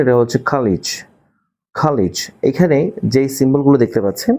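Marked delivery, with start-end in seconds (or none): 0.5-2.1 খালিজ said slowly twice, soft and clear; model pronunciation. Shown as a demonstration. Teacher models খালিজ for students. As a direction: repeat খালিজ carefully as a model. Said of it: "এটা উচ্চারণ ঠিক করে".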